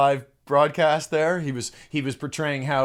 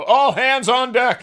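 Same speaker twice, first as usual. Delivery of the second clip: slow, louder rallying call; 7 semitones higher, 6 dB louder, slower than usual. Retold or imitated. Insides calling the fighter back, slow loud rally. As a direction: bark it out like a captain rallying. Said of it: "you go".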